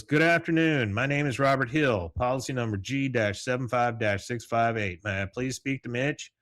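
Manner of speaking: Bobby on phone. Retold or imitated. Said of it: "He goes".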